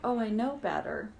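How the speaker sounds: light casual shrug of a line; light breezy take. Shown as a demonstration. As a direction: toss it off lightly, no weight to it. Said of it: "that voice does not sound like".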